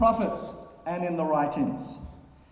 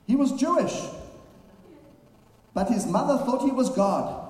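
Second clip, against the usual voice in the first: put-on Polish Jewish accent; 7 semitones higher than usual. Polish Jewish woman answering the street interviewer, lightly imitated Polish Jewish accent. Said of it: "Polish Jewish woman in her accent".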